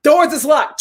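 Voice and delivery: mock tough taunt; lightly voiced cocky Charlie; imitating Charlie taunting. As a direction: throw the dare with a chuckle. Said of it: "Charlie talking".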